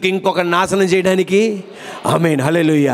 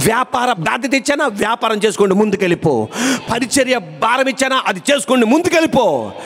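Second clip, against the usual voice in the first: insistent sermon exhortation; driving, repetitive preacher's cadence; fervent preaching; 6 semitones higher than usual. Acted. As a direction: preach God's assurance with urgency. Preaches God's words to listeners.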